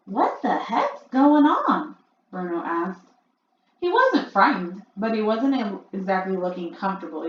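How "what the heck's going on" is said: put-on puzzled boy. A narrator's reading. Boy confused on stage.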